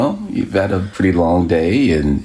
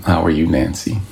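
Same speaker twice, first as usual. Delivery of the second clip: a singer's voice. Shown as a demonstration. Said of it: "she's gonna get this".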